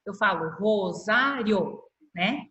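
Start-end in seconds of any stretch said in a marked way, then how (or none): 0.6-1.8 Rosário in slow syllables, quick joined IO ending; joined final vowels. Shown as a demonstration. Teacher showing the same-syllable vowels, slow with joined ending. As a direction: stretch Rosário, gliding I and O into one syllable. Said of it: "eu falo bem rapidinho e elas saem na mesma sílaba".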